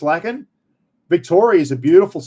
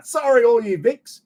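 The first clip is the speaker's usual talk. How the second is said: laughing mock apology; 9 semitones higher than usual. Real, not acted.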